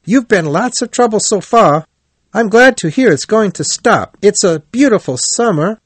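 very high, lively chiding; cheerful. A narrator's reading. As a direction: scold a friend cheerily in a high voice. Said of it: "said Rat cheerfully".

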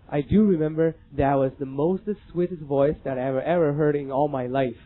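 Forrest Gump. Retold or imitated. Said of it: "阿甘说了一句话".

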